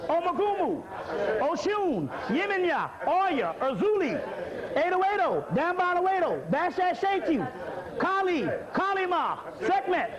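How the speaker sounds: chanted roll call of spirits, each name falling; intoning names, answered by the congregation; ritual invocation. Acted.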